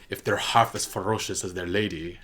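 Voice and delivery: put-on halting try at Davos's accent, not quite there; attempted Davos accent. Quoting Davos's pledge to Lyanna in his accent, a first shaky try. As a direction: reach for Davos's accent and miss. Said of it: "I can't do his accent".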